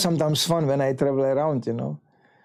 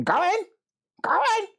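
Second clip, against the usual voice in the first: commanding shout. Retold or imitated. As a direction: bark it like a matron who won't take no. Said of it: "she was going".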